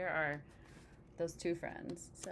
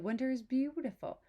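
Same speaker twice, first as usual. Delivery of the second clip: happy; 7 semitones higher, 4 dB louder than usual. Acted. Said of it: "he's so happy".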